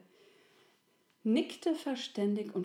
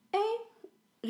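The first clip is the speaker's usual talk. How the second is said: very high happy shout; joyful cry; 14 semitones higher than usual. A narrator's reading. The little soul cries out with joy at Resi. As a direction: squeal with sudden delight. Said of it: "rief die kleine Seele".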